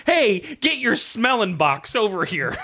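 high, slow hammed-up call; playful mock summons, cracking up; laughing mock slang. Acts out invented British slang.

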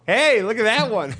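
high, slow mock-dad call; ogling dad. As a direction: imitate a dad shamelessly pointing someone out. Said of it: "your dad just go".

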